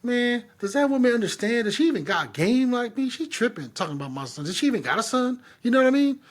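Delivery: mock trash talk. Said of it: "I'll be talking hella shit".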